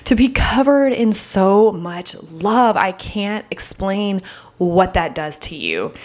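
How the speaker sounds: slow, fighting back real tears; on the verge of tears. Real, not acted. Telling viewers about being loved, slow and near tears. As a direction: voice catching as the emotion rises. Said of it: "I feel like I'm about to start crying".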